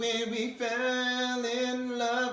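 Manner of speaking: pinched, squeaky, very high, very slow chipmunk voice. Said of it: "with an open sound".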